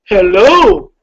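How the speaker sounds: loud, exaggerated imitation of her own hello; mock manly hello. Showing how a peer said she sounded, loud mock hello. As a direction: boom it out as a mocking mimic. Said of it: "that is the way I sounded".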